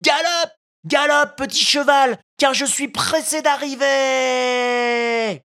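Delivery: put-on high, eager child's voice urging the bird on; gleeful giddy-up to a pigeon; joyful cry. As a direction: puppet riding the pigeon like a horse, delighted. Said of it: "lança joyeusement".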